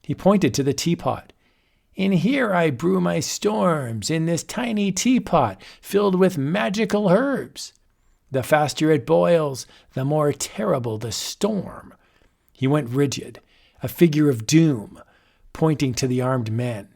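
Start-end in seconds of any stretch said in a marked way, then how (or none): 1.9-11.9 boastful wizard. Acted. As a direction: savour each threat. Wizard explains teapot.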